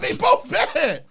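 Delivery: high, loud, drawn-out imitation; slow mocking mimicry with voice pushed up; stretched-out comic quote; mock uncle.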